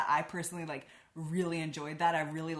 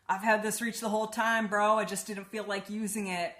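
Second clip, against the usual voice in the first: higher, louder smug bro voice; cocky dudebro; 3 semitones higher, 4 dB louder than usual. Retold or imitated. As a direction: brag it off like a careless bro. Pestilence boasting to Sarah.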